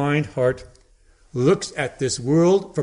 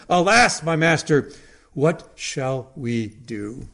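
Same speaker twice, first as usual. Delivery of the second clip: panicked cry; slower than usual. Retold or imitated. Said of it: "In panic, he cried out to Elisha".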